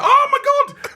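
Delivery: laughing, very high pitched squeal of shock; laughing horror. Retold or imitated. DJ hearing the swear at a family gig, laughing shriek.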